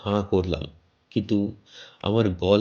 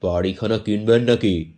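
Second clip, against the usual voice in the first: a hint of a wheedling middle-aged seller, slightly louder; chatty local landlord pushing a sale; bald man selling a house; 4 dB louder than usual. Bald stranger pitching the house to the narrator, lightly voiced.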